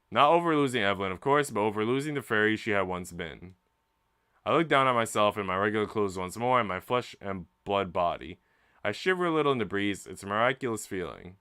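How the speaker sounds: dramatic storytelling read over the music; story narration. A narrator's reading. Streamer reads the game's story aloud to chat, storytelling voice. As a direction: read it like a novel's climax.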